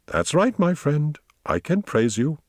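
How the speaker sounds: high-pitched praise for a dog; approving praise. A narrator's reading. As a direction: pat the dog with your voice. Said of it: "Tobias approvingly patted him".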